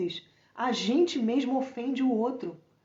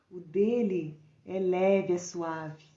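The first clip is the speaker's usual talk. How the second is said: tender and slow; 4 semitones lower, much slower than usual. Real, not acted. Gentle words about Jesus' burden.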